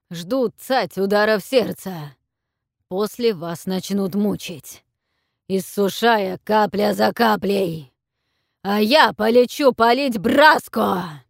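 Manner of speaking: loud, slow booming dragon command; deafening dragon roar. A narrator's reading. Dragon orders the captives to kneel, booming roar.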